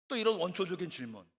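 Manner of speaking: ordinary talk, nothing marked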